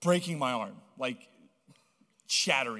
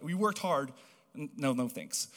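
mock reluctant refusal. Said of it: "that's what I feel like is going on here".

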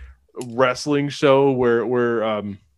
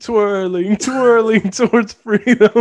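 raised-pitch, chanted repetition; hammed-up rallying line; mock speechifying; 6 semitones higher, 3 dB louder than usual. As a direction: proclaim it grandly as a joke. Quotes a line in put-on voice.

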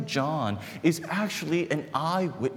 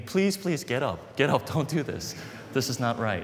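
slightly raised, imitated urgent plea; retold shocked begging. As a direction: act out his pleading, mildly urgent. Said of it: "he's begging me".

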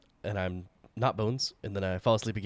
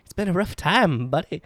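lightly voiced higher robot; a hint of the stabby robot; 6 semitones higher, 6 dB louder than usual. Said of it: "I have the voice for him".

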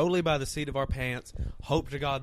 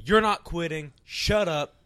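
louder, emphatic telling-off; firm retold order; 6 dB louder, slower than usual. Retelling how he stopped a friend quitting, firm order. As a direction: shut down the quitting talk firmly.

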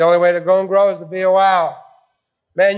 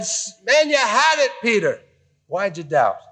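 loving. Retold or imitated. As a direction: encourage him kindly. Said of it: "It's a loving thing".

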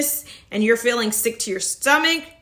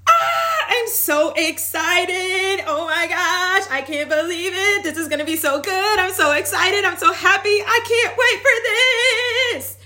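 giddy excitement; 6 semitones higher than usual. Pretend. To viewers, modelling excited self-talk, giddy squeal. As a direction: squeal like the best news ever. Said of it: "start to say".

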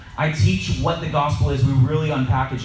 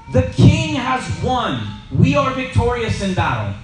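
soldier shouting; 7 semitones higher than usual. Retold or imitated. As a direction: cry out the win to the whole city. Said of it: "and all you hear".

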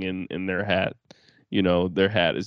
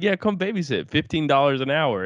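smug dad; 5 semitones higher than usual. Retold or imitated. Imitating Steven inviting girls.

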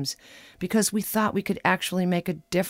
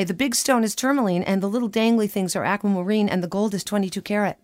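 hurried, slightly higher change of subject; quick interjection; 3 semitones higher, faster than usual. Retold or imitated. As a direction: jump in quickly to steer the talk away. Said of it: "I quickly say".

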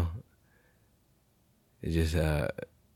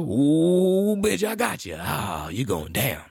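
gloating cop; 6 semitones higher, slower than usual. Retold or imitated. Vlogger voicing the cop who finds the cartridge, high and gloating. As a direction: pounce like a cop catching you.

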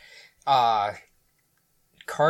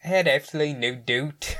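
attempted Scottish accent. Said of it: "I don't know if I can do a Scotty accent".

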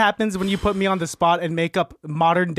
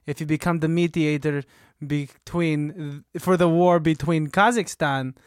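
General of Kazakhstan; 2 semitones lower than usual. Acted. General offering the job.

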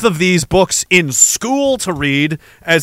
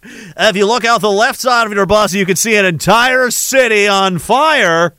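tour guide; 3 semitones higher than usual. Acted. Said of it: "like we're on a bus tour with you on the mic".

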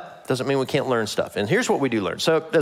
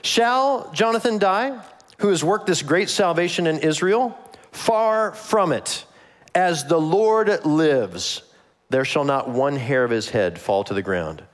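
people protesting; 2 semitones higher, slower than usual. Acted. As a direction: plead hard, stretching every word. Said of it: "the people said to Saul".

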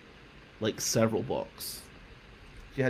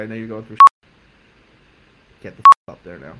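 screaming order; 17 dB louder, faster than usual. Retold or imitated. Coach screaming at student to get back upstairs, all-out yell. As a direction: explode from sorry into a roar.

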